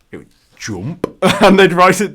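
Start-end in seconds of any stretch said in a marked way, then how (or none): 0.6-1.1 "jump" as a short "joomp"; northern English jump, vowel as in foot. Shown as a demonstration. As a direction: say JUMP on its own with the rounded northern oo. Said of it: "they'd write it like J".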